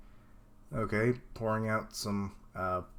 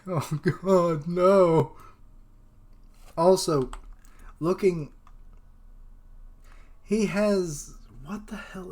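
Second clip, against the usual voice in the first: loud, higher, laughing dismay; 5 semitones higher, 4 dB louder, slower than usual. Real, not acted. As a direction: burst out laughing through the words. Cracks up while reading.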